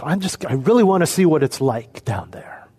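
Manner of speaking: unvoiced, airy mock confession; mock whisper. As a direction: whisper it like a sly excuse. Mock selfish Jesus voice, whispered.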